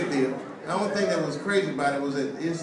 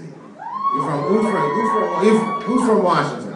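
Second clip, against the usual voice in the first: calling out; 4 semitones higher, 4 dB louder than usual. Real, not acted. Calling out to the audience.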